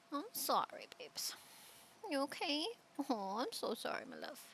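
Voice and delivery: hushed, soothing murmur; real soft apology to a pet; soft tender apology. Real, not acted. Owner soothes the scared dog, quietly apologetic.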